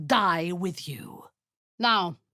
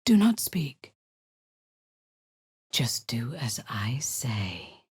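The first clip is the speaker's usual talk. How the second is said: commanding whisper; 5 semitones lower than usual. Acted. Commander silencing a subordinate, in a cold whisper. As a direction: shush them with cold authority.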